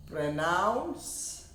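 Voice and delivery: teacher repeating Pronounce for students; model word. Shown as a demonstration. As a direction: Pronounce said again with a rising tune. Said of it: "and this".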